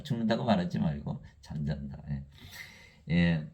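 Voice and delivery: ordinary delivery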